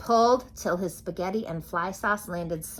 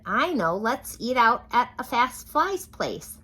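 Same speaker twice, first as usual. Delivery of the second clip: higher, louder eager suggestion; eager frog; 6 semitones higher, 6 dB louder than usual. A narrator's reading. Froggy proposing dinner out to his parents, eager voice. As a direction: pitch the idea brightly.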